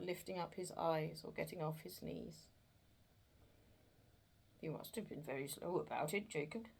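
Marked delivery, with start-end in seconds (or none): 4.6-6.7 businesslike. Acted. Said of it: "in a very businesslike manner".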